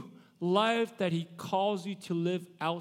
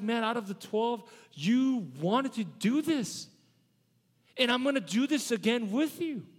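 compassionate; 6 semitones higher than usual. Shown as a demonstration. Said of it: "I see Jesus full of compassion".

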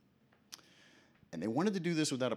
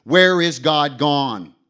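very loud, slow anguished cry; the madman calls out to the market crowd; calling out; 5 semitones higher, 18 dB louder, much slower than usual. Acted. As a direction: hurl the question at the crowd. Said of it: "he called out".

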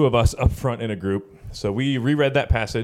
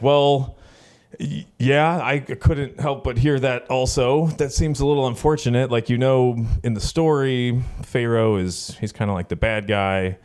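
flustered; 4 semitones higher than usual. Retold or imitated. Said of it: "I was like".

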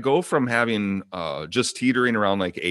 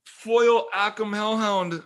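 real dismay; 11 semitones higher, slower than usual. Real, not acted. Mourning his foil card.

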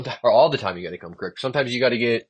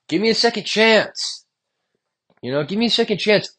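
lightly voiced pleading, a touch higher; mock begging; 3 semitones higher than usual. To his boss, pleading for his job, a mild mock plea. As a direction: beg the boss for the job half in jest. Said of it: "I was begging for my job".

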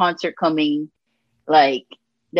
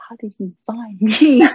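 laughing surprise; 5 semitones higher, 3 dB louder than usual. Retold or imitated. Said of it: "I was like".

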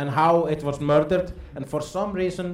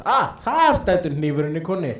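mock eureka moment; 4 dB louder than usual. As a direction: exclaim it as a sudden discovery. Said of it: "he found a cow, a knife in the cow and said".

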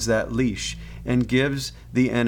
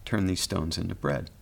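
mild mock taunt from the tempter; 5 semitones lower than usual. A narrator's reading. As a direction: sneer the dare at him. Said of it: "And in a mocking voice".

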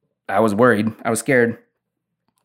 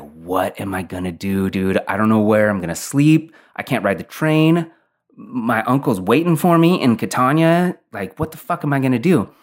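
mounting mild panic, pitch climbing as it goes; retold freaking out. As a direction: start contained, then build to exasperated alarm. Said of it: "And I start freaking out".

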